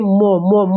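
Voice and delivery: teacher showing the students how म sounds; demonstrating the sound म. Shown as a demonstration. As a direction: hum म twice, lips closed, through the nose. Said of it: "तो म बोल के देखिए".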